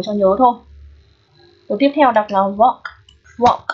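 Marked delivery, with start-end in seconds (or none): 2.4-3.6 "walk" with a long open O, silent L. Shown as a demonstration. Teacher modelling the next word, long O in "walk". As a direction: say "walk" as "wawk". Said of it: "Cái này là âm O dài".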